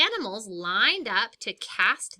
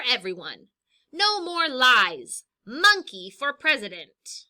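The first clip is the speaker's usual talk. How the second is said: lively, higher campaign voice; monkey's speech; 4 semitones higher, 7 dB louder than usual. Acted. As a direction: fire up the voters against the king.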